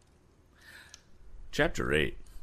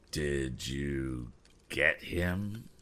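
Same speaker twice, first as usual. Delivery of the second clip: eager; 2 semitones lower, much slower than usual. A narrator's reading. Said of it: "asked one of the figures eagerly".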